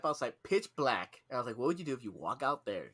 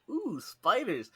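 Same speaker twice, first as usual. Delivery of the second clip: slow, higher "ooh, spiders" mimicry; mock delighted coo; 8 semitones higher, slower than usual. Teasing the coworker about spiders, slow mock coo. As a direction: mimic the coworker's glee, drawn out. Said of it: "I was like".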